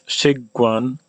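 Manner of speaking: Shiguan with a full sh at the start; sh sound. Shown as a demonstration. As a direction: open Shiguan on a clear sh. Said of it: "is going to sound, you know, different".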